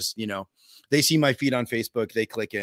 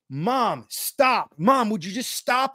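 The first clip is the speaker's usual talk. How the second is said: mock yell; 6 semitones higher, slower than usual. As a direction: imitate yelling at mom without full volume. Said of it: "they kept yelling".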